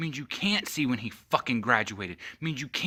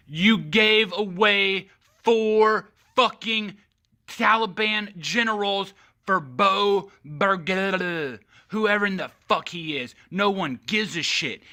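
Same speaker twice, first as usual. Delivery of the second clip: much higher, louder and slow at first; furious ranting shout; angry shout; 8 semitones higher, 7 dB louder, slower than usual. Real, not acted. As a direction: yell it in outrage. Angry political rant.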